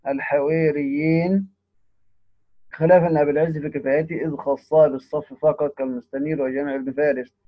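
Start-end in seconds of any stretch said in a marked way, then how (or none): 0.1-1.5 الحواريين slowly, alif tilted toward e; imala. Shown as a demonstration. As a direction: say الحواريين drawn out as "al-haweriyyin". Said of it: "بالإمالة فيهما على الصحيح".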